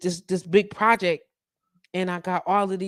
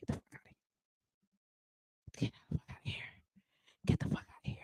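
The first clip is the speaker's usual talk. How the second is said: hushed, scornful brush-off; a breathy whisper that dies away; whispered dismissal; 17 dB quieter, faster than usual. Acted. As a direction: whisper it, fading out over the repeats. Repeated dismissal of demanding clients.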